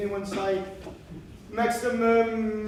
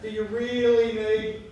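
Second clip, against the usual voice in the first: Thin Wayne; 3 dB louder than usual. Acted. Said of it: "Thin Wayne will say".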